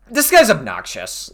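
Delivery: high, laughing disbelief. Real, not acted. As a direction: laugh it out, exasperated. Laughs reading the DMs.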